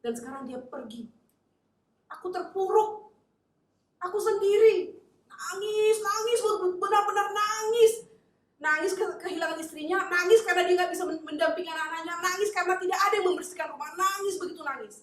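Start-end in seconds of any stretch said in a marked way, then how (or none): 2.1-4.9 high, loud, slow lament; anguished cry. Acted. Widowed pastor cries to God, loud anguish. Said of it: "Akhirnya dia nangis, Tuhan". 5.2-15.0 high, loud, driving repetition; preaching at full force. Acted. Preacher describes the widower's weeping, full force.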